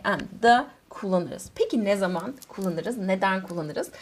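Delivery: ordinary talk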